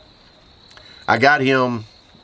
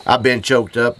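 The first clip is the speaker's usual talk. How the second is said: choked up; 4 semitones higher, 4 dB louder than usual. Real, not acted. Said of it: "I'm choked up".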